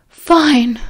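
whispered sighing fine; heavy sigh. Acted. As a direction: sigh the word out. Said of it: "Sirius sighed heavily".

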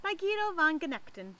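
put-on measured read-aloud for children; story narration. A narrator's reading. Librarian reading a not so spooky story to children, storytelling voice. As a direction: tell it like a picture book. Reads picture book aloud.

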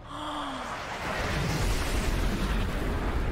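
long drawn-out awed gasp; breathy, voiceless gasp. Real, not acted. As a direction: suck in air slowly in amazement. Amazed by the game.

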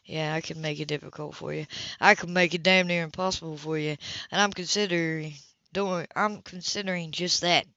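understated stern man; lightly voiced Philip. Philip voiced in a read novel.

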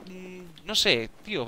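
ordinary talk, nothing marked

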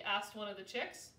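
plain reading voice

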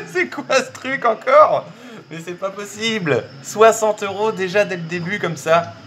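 high, excited voice of disbelief; giddy disbelief. Real, not acted. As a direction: squeal about the lucky win. Giddy disbelief after win.

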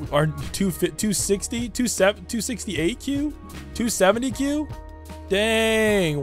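excited disbelief. Real, not acted. DPS number keeps climbing.

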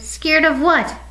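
high-pitched scoffing question; incredulous, dismissive little retort; scornful snort. A narrator's reading. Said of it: "Little Bear snorted".

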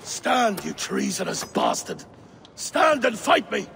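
bellowed challenge to fight; furious challenge. Acted. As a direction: roar at the traitor. King challenges to a duel.

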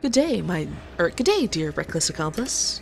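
a lightly voiced smooth salesman; polite salesman charm, kept subtle; toned-down salesman voice. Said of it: "tone it down like this for Zachary".

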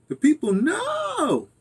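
high, very slow mock Kamala voice; Kamala accent. Shown as a demonstration. Quoting the book title to viewers in a mock Kamala voice. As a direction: stretch it out high like a Kamala impression. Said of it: "I like to say with a little Kamala, uh, you know, accent".

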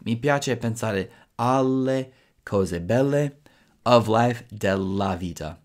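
slow, careful full sentence; teacher demo at slow pace; slow model sentence. Shown as a demonstration. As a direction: build the sentence slowly for learners.

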